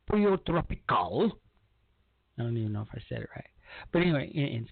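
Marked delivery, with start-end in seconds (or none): 0.1-1.4 Pollo Tropical with a Spanish accent, poyo. Shown as a demonstration. Host tries Pollo Tropical with a Spanish accent. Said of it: "with a Spanish dialect".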